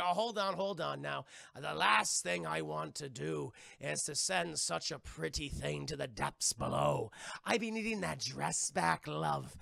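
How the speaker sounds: lightly voiced pirate captain, slow and leering; unhurried mock-villain courtesy; Barbossa. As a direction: drawl it slowly with a hint of sea dog. Plays Barbossa stopping Elizabeth.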